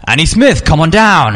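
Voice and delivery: high, loud game show host call. Retold or imitated. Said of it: "he's like".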